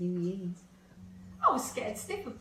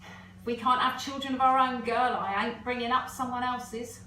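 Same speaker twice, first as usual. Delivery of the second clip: imitating Harry; 3 semitones higher, 8 dB louder than usual. Wife quoting husband refusing adoption, mock gruff. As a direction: bark it like her stubborn husband. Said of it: "he killed it stone dead".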